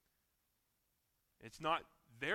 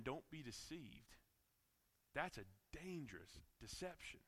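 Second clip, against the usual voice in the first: earnest sermon voice; preaching. Acted. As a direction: preach it to the congregation.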